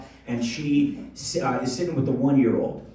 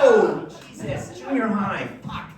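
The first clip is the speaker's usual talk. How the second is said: mock shocked dad; 5 semitones higher than usual. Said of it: "I'm like".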